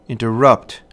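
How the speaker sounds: "interrupt" with two light syllables, then stressed "rupt"; anapestic stress. Shown as a demonstration. Lecturer giving an example of an anapest, "interrupt" stressed on "rupt". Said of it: "rhythm of the anapest".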